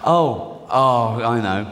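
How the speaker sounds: halting, stammering excuses; a caught-out wife scrambling for a story; lightly voiced flustered Mary. Joseph and Mary acted scene.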